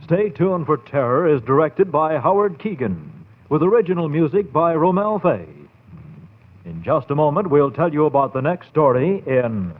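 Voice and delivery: put-on measured, old-time radio credits read; radio announcer. Announcer closing a radio terror programme, formal and measured.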